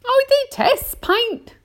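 high, slow, emphatic announcement; Miss Spider. A narrator's reading. Miss Spider announces her hatred of paint, high and emphatic. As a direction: draw it out with dramatic distaste. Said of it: "Miss Spider announced".

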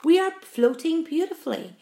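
calm and confident; calm reassurance. A narrator's reading. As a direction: reassure them it is fine. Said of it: "said James calmly".

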